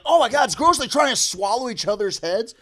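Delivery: high, loud imitation of a disgusted kid; mock grossed-out. Retelling boy's reaction to teens kissing, mock disgust. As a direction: exclaim in exaggerated horror.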